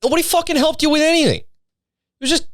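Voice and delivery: blurting it out, appalled at the clip; incredulous outrage. Real, not acted. Streamer scoffing at the Blue's Clues host, high and incredulous.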